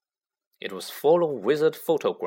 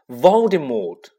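loud, drawn-out bellow; 9 dB louder, slower than usual. A narrator's reading. Harry defies Hagrid's fear of the name, bellowing. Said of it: "Harry bellowed".

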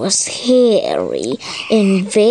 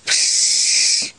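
hushing shush. Acted. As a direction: shush a child to sleep. Shushing in the bedtime story.

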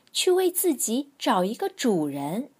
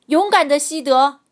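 excited; 5 semitones higher, 12 dB louder than usual. A narrator's reading. Firefighter praises the dog.

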